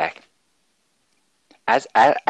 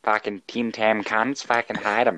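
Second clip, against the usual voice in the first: put-on Australian accent; 2 semitones higher than usual. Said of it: "he is, in fact, from Australia".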